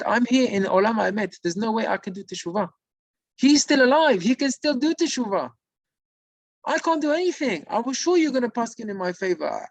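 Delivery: high, wailing cry of a condemned spirit; retold anguished sob, pitched high. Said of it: "And he started crying".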